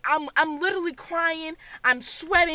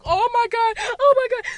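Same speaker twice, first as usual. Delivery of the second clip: raised, louder gasp of dread; reenacted rising panic; alarmed cry; 5 semitones higher, 4 dB louder than usual. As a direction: cry it out on seeing the killer. Reenacts spotting Michael Myers.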